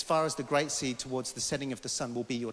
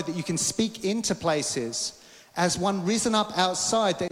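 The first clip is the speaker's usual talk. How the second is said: rousing, emphatic prophetic declaration; prophetic preaching; 4 semitones higher than usual. Acted. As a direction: proclaim it over the congregation with building conviction. Delivers prophecy as God's words.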